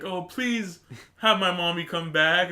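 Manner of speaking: hammed-up pleading little girl; exaggerated imitation of a tearful prayer; praying girl. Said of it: "the girl praying".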